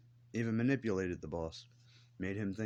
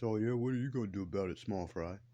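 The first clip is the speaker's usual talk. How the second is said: mock tough guy; 2 semitones higher than usual. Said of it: "trying to act like a big belly badass".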